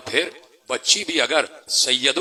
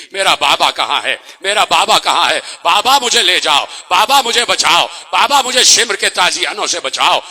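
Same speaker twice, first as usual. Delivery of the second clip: put-on child crying for her father; 2 semitones higher, 4 dB louder than usual. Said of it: "Sakina کی آواز رک نہیں رہی تھی".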